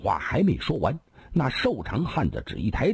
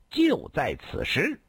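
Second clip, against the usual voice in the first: slow, rising much higher on the last words; a harsh, triumphant pronouncement; stern and sharp; 8 semitones higher, slower than usual. A narrator's reading. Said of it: "厉声的说道". (厉声高调宣告)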